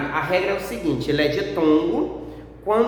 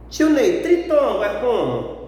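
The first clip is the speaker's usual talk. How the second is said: student asking; 3 semitones higher than usual. Pretend. Student asks teacher a question.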